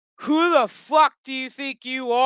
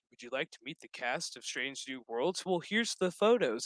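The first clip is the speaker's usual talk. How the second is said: mock announcement; 10 semitones lower, 12 dB quieter than usual. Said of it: "they done fucked up by putting up".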